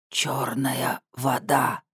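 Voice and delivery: raspy slow whisper; hoarse doll whisper. Acted. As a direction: wheeze it like a broken speaker. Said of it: "прохрипел репродуктор".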